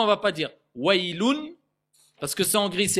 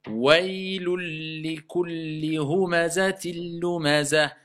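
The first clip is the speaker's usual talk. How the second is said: slow recitation; slower than usual. Shown as a demonstration. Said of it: "Vas-y".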